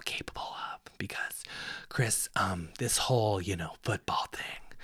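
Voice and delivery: half-whispered mock counselling; patronizing advisor. Acts someone gently letting Chris down.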